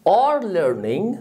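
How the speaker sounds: very slow, each word spaced; slow model phrase. Shown as a demonstration. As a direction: stretch it out for the pupil. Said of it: "teacher models phrase slowly". (ببطء شديد)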